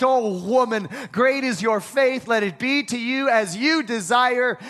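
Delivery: rising to a shout on the last words; proclaimed blessing. Acted. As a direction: declare it like a blessing. Preacher voices Jesus's blessing.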